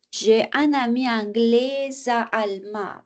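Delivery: "anglais à" joined with a z sound before "à"; linked ending. Shown as a demonstration. Teacher tries out the liaison, linked. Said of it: "Peut-être anglais à allemand".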